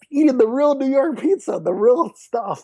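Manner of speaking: high, slowed relish on real; excited savoring. Real, not acted. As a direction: linger on it like the best bite ever. Savoring New York pizza.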